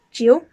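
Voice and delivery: Jiu loud, dipping then rising; third tone. Shown as a demonstration. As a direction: swing Jiu down and up. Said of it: "goes down and then up".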